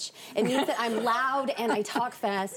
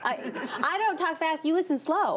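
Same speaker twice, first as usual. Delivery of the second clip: laughing; 7 semitones higher than usual. Real, not acted. Playful comeback about talking fast.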